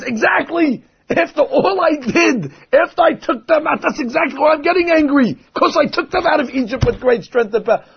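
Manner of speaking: an emphatic divine yes, laughing through it; God agreeing. Retold or imitated.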